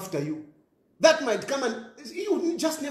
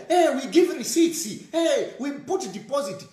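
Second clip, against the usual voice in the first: mocking slave queen; 3 semitones higher than usual. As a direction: parrot her bragging with scorn. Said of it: "comes out on social media".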